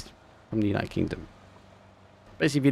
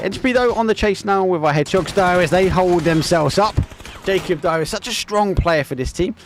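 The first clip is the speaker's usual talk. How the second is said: live play-by-play. Acted. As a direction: drive the commentary as the action heats. Caster calls live match.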